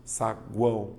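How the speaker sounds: saguão said slowly, the U sounded clearly as sa-GWÃO; slow demo word. Shown as a demonstration. Teacher showing the class how saguão sounds, slow and clear. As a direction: spell out saguão slowly so the U glide is heard. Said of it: "Veja, saguão".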